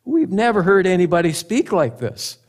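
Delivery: impressed. Acted. Guards voiced reporting back to leaders.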